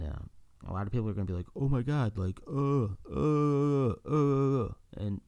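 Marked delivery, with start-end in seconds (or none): 1.5-4.7 higher, louder sputtering; a mock hater lost for words; mock outraged sputter. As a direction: sputter like a speechless critic. Mimicking outraged listeners.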